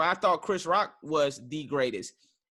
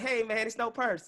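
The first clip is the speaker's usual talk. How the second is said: higher, light and friendly, no edge; easygoing; 5 semitones higher than usual. Pretend. Host offers the calm, friendly version of the denial. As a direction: keep it breezy and unbothered. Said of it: "Or are you still like".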